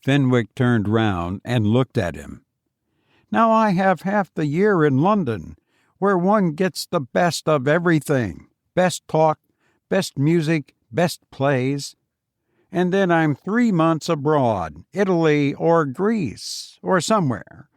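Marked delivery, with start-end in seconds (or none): 3.3-14.8 a higher, self-satisfied voice; Foster's voice. Acted. Boastful visitor lectures his old friend, higher and self-satisfied. 14.9-17.7 tossed off a bit higher, breezy; Foster's airy boast. Acted. Foster shows off his travels to Fenwick, airily.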